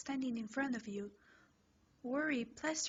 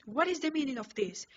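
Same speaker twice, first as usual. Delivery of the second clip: stern class rep; 3 semitones higher, 6 dB louder, faster than usual. Acted. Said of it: "Tenya says".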